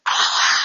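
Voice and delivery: hammed-up scream of passengers on a hard landing; retold passenger scream. Storyteller voices the screaming passengers as a breathy mock scream. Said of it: "They're screaming".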